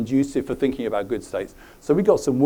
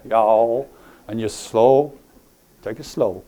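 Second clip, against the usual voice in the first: louder Deep South drawl; southern drawl; 3 semitones lower, 4 dB louder, slower than usual. Acted. Trainer tells people to imagine the deep south, southern drawl. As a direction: drawl it like you're from the American South. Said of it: "you've got a southern drawl".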